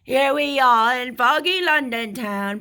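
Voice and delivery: deliberately bad, hammed-up London accent; loud, badly faked London accent; terrible London accent. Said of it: "Please excuse my terrible accent".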